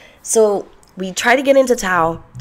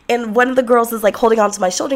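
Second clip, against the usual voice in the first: normal talking voice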